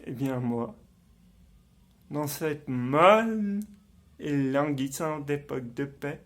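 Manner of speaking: low, soft stage soliloquy; hushed and low, in measured phrases with long pauses; brooding confession. Acted. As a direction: confide it darkly, as if thinking aloud. Acted villain confides his resolve.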